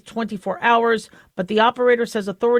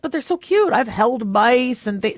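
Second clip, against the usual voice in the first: put-on little kid pleading. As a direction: lightly voice the kid begging. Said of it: "And I was like".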